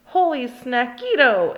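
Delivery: gleeful loud outcry; exclaiming. Acted. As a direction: burst out in delight at the snack. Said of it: "exclaimed the kitty boy".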